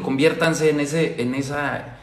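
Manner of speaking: ordinary talk, nothing marked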